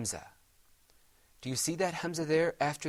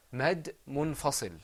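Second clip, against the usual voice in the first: slow and clear; slower than usual. Shown as a demonstration. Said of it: "Repeat after me".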